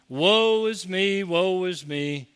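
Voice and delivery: hammed-up pity-me lament; mocking whiner. Preacher mocking the man whose wife left him, slow whine. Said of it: "why his wife left him".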